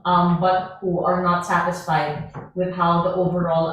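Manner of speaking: choppy broken-up call audio; breaking up space radio. Real, not acted. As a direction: voice cutting in and out. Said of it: "you're breaking up".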